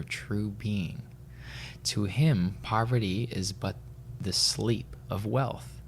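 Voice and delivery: slow, measured recitation with pauses; solemn book reading. Real, not acted. Podcaster reads a spiritual passage to co-host, solemnly. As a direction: read it slowly, phrase by phrase.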